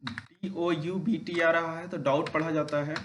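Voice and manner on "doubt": "डाउट" with no B before the T; silent B. Shown as a demonstration. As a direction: glide from the vowel straight to T in "डाउट". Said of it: "उसका उच्चारण सामान्यतः नहीं करते हैं".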